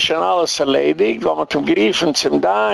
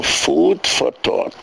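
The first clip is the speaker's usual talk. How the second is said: slow, deliberate "food for thought", each word drawn out; slow quoted phrase; 2 semitones lower, much slower than usual. Shown as a demonstration. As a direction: lay out "food for thought" slowly, like naming a term. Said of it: "That's what it's called". (פאמעלעך, ווי א באגריף: "food for thought")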